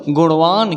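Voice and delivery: गुणवान as "guṇvaan", curled-tongue ṇ; touch the roof of the mouth on the ण of गुणवान; retroflex ण. Shown as a demonstration. Teacher models गुणवान for learners, retroflex ṇ. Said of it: "मूर्धा में touch करेगा".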